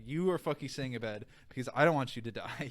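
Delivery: insistent, emphatic command; firm order. Shown as a demonstration. Doctor telling patient to stay in bed, firm order. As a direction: lay down the law, no question about it. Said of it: "It's like".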